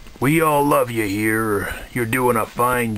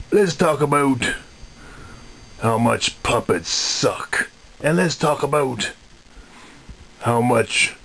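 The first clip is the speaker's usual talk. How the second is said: a lightly put-on Kermit the Frog voice; a mild Kermit impression, close to his own voice; new Kermit voice. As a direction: do Kermit, but not quite the usual one. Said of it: "this is my new voice".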